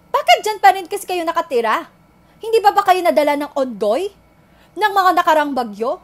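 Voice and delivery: loud, reproachful questions; exasperated scolding. Acted. Blaming typhoon victims for staying in their homes, exasperated scolding. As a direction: scold them for never learning their lesson.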